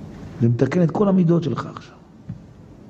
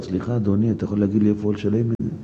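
polite request; 6 semitones lower, faster than usual. Shown as a demonstration. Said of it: "לך לפקיד בדואר".

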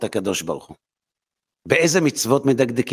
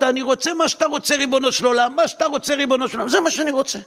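high, earnest surrender; mild pleading devotion; 10 semitones higher, faster than usual. Acted. A worshipper tells God he wants what God wants, lightly pleading. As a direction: offer your will up sincerely, pitched high. Man submits to God's will.

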